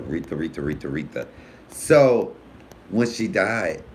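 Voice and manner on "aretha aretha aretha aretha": soft, low, adoring repeat of the name; dreamy swoon. Real, not acted. Fan swooning over a singer, soft and low. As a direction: sigh her name like a lovesick fan.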